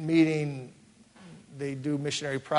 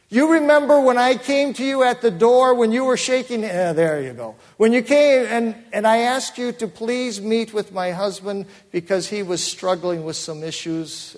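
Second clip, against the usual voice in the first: much higher and louder, an urgent retold plea; hurt reminder; 7 semitones higher, 6 dB louder than usual. Woman reminding the pastor he ignored her, loud and pleading. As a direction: press the point, raised and insistent.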